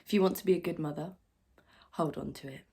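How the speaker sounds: loud, pressured confession of failure; strained self-reproach. Acted. Struggling mother recalls the rules of motherhood, loud and strained.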